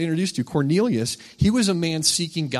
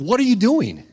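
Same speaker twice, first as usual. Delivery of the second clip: loud, high, gruff. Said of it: "in a rather gruff voice".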